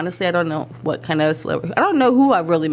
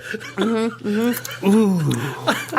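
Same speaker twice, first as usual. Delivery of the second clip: eating sour candy; much slower than usual. Real, not acted. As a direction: mouth puckered by sour candy. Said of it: "I feel that kicking in".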